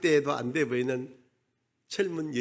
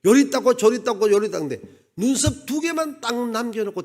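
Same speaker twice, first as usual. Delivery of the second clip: excited build-up; 8 semitones higher, 7 dB louder than usual. Acted. Preacher builds climax.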